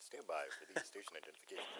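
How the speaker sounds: very soft, hushed radio announcer-style delivery. Announcing a break for news, traffic and weather: put-on radio announcer voice. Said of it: "Do you like my radio voice?".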